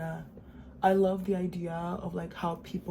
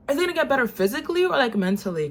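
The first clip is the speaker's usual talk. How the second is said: incredulous high question; 6 semitones higher, 7 dB louder than usual. Retold or imitated. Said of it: "And I was like".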